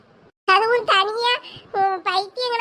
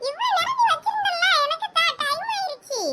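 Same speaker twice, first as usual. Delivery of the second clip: put-on higher-pitched, insistent little-kid voice; demanding child; 6 semitones higher than usual. Younger girl demands the remote from her older sister, high and insistent. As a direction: whine for your turn like a child.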